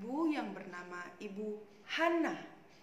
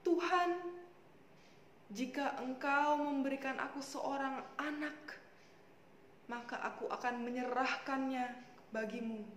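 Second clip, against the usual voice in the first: mildly pleading prayer, sinking softer towards the end; tearful prayer; 4 dB quieter than usual. Acted. Hana vows her child to God, understated tearful prayer. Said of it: "dengan menangis dia berdoa".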